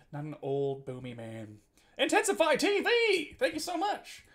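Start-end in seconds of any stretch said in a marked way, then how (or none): 2.0-4.2 high, loud, slow call-out; excited shout. Real, not acted. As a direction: belt out the channel name to thank them. Loudly thanking a new follower.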